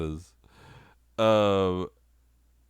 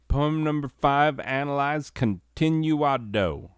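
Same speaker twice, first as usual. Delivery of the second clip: high announcement; 7 semitones higher, 5 dB louder than usual. Pretend. Mock announcer for next segment.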